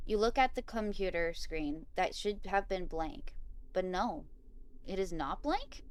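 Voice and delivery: measured read-aloud of a game story; story narration. A narrator's reading. Player reading Bob's condolences aloud, measured story narration. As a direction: read it out evenly, pausing between phrases.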